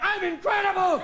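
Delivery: high, loud gloating cry; mock ecstatic boast. Man in bed taking credit for the quake, loud and high. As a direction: crow it out in triumph. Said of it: "somebody's having sex going".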